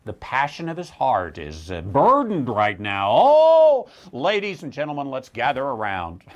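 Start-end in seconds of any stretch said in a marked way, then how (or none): 3.1-6.2 mockingly rally the crowd; mock announcer.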